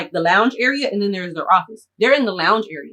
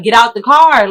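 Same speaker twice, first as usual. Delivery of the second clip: yelling; 3 semitones higher, 8 dB louder than usual. Retold or imitated. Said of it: "I'm telling him, like".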